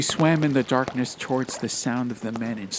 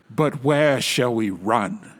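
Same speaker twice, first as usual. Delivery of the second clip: searching; 5 dB louder, slower than usual. Acted. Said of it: "asked Duroc searchingly".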